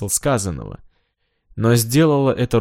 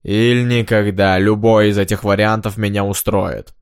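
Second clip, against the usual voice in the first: theatrical indignation; 4 dB louder than usual. Acted. Minstrel sends off the ringing visitor, grand and cross. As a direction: declaim it crossly to the intruders.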